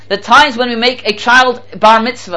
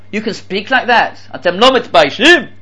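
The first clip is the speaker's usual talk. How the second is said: acted cab driver's reproach; mildly outraged scolding; indignant. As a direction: scold him in punchy disbelief. Acted driver scolds at story's punchline.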